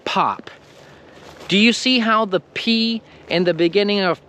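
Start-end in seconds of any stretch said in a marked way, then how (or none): 0.1-0.5 pop, final P released hard; strong final p. Shown as a demonstration. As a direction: pop with both P sounds equally strong. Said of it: "you can even hear it in the word".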